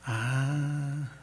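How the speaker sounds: suave, más lenta, con un leve reproche; voz interior del Espíritu. Acted. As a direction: una conciencia que habla despacio. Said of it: "una voz como diciendo". (el Espíritu reprende al pastor suavemente)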